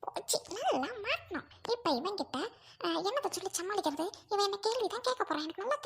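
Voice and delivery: soft worried aside to oneself; quietly fretting to oneself. Acted. Worried aside, hiding from husband.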